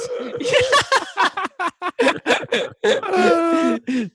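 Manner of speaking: long, high, loud-rising belly laugh; hard laughter. Real, not acted. Cracking up at being held in his arms, real laughter. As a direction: crack up helplessly, right up into a squeal.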